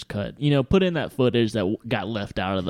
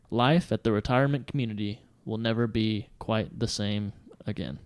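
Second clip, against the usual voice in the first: solemn newsreader reading the report; grave 1940s war broadcast. Acted. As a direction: read it like grave news. Reads news story aloud.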